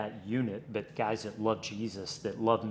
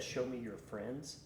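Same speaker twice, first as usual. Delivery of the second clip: quoted pastor's saying; 10 dB quieter than usual. Retold or imitated. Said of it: "I heard a pastor one time said".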